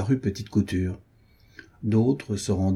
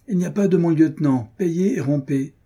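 higher, louder officer barking orders; angry shout; 8 semitones higher, 4 dB louder than usual. A narrator's reading. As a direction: cut him off sharply, much higher and louder. Officer cuts off soldier.

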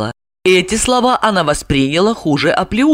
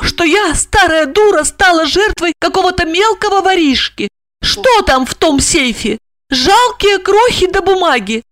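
rising fury; 12 semitones higher than usual. A narrator's reading. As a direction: let the outrage boil over into insults. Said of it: "с гневом и ужасом".

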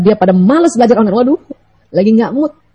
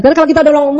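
ordinary delivery

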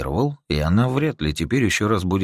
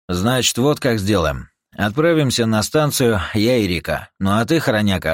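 commanding; 4 semitones higher, 4 dB louder than usual. Acted. Юджин раздаёт указания команде.

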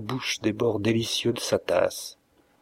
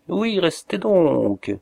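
eager plea; 7 semitones higher, much slower than usual. Acted. Girl urging guest to stay.

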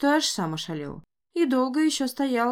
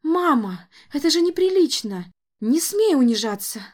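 louder, higher pleading shout; 6 semitones higher, 7 dB louder than usual. Acted. Daughter shouting after her mother running to the door. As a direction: cry out to stop her. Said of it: "с криком".

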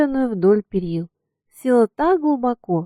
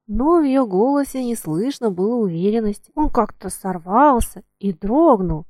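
usual speaking voice

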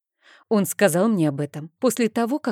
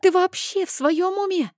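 shouting. Acted. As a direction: burst out, leaping up in alarm. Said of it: "закричал Рейн".

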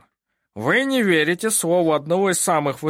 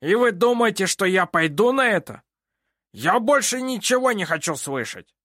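much higher, louder angry order; furious judge; 10 semitones higher, 4 dB louder than usual. A narrator's reading. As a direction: throw them out in rage. Judge refuses in rage. (судья в ярости выгоняет их)

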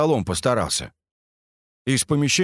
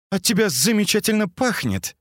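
higher, mock-sweet girl's voice; sarcastic; 10 semitones higher than usual. A narrator's reading. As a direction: wrinkle your nose at the smell. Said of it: "сказала Катя, сморщившись". (с сарказмом, поморщившись)

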